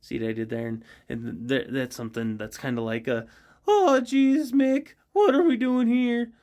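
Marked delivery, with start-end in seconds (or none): 3.7-6.3 much higher, louder fretful whine; a jittery teen asking his grandpa; nervous sidekick voice. Acted. Rorty asking Mick why they are here, high nervous whine. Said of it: "called Mick and Rorty".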